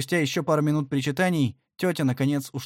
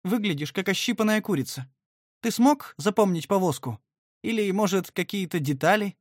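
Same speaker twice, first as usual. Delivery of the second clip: forced cheer; 6 semitones higher than usual. A narrator's reading. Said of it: "бодрым, хоть и дрожащим тоном".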